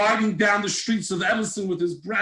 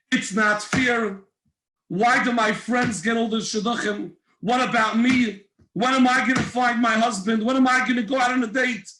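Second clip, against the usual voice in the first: put-on whiny, pleading girl's lament; complaining daughter; 3 semitones higher than usual. Daughter complaining to her mother, whiny and pleading. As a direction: pour out a frustrated heart to mom.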